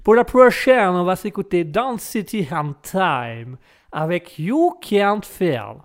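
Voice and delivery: French host putting on an English accent, slow on the titles; English accent for the song intro. Shown as a demonstration. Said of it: "je peux te faire l'accent anglais".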